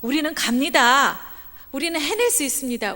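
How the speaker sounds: loud, confident proclamation; bold declaration. Retold or imitated. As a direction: declare it boldly as a brave man. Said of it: "아주 그냥 당당하게 선언했어요".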